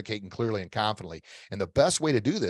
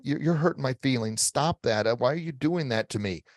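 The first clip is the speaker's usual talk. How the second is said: defeated tone; 3 semitones higher than usual. Shown as a demonstration. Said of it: "with a defeated posture and defeated tone going".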